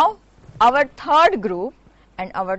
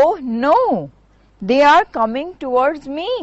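a touch of alarm, rushed; mild alarm; much faster than usual. Acted. Duckling sees swans coming, mildly alarmed and fast. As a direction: hurry the words as a lightly frightened duckling. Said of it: "cried the ugly duckling in alarm".

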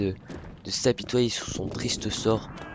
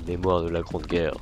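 nature documentary; 5 semitones lower than usual. Shown as a demonstration. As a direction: narrate it like a wildlife film. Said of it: "ma voix de, de documentaire animalier".

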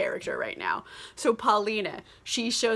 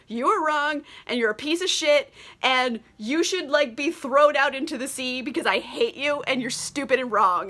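mild mock tirade, pitch a touch raised; Paulina laying into him; 3 semitones higher than usual. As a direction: retell a scolding with emphatic bite. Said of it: "lays into this guy".

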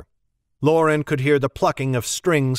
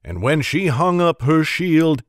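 storytelling Alburn. Acted. Alburn telling of the Uncut Lady, proud. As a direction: speak with proud reverence. Alburn praises Mag's fame.

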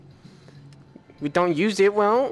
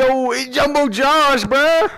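raised, excited shout-out; excited hail; 3 semitones higher than usual. Real, not acted. Player showing off a game character, excited. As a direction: call it out with rising excitement.

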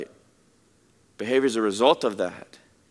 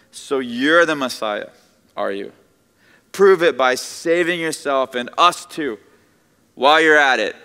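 mild sarcastic sneer at the Messiah; mock the dying man lightly, rising louder; mocking scoff; 5 dB louder than usual. Criminal scoffing at Jesus on the cross, sarcastic jeer.

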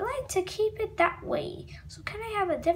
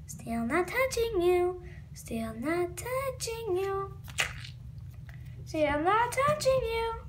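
slow, soft sing-song taunt; teasing; 6 dB quieter, slower than usual. Acted. Brother teasing sister, slow taunting. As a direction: drag it out to annoy your sister.

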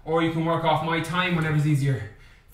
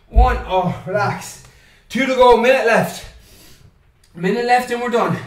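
loud coaching shout; 3 semitones higher, 6 dB louder than usual. Real, not acted. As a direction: shout the countdown out. Coach shouting final rounds.

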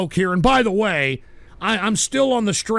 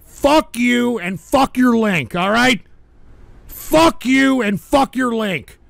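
slow angry; slower than usual. Real, not acted. Ranting at chat.

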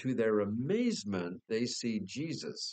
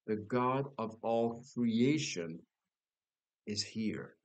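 preaching build. Acted. Preacher to his congregation, repeating the promise as a swelling refrain. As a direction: preach it, growing each time.

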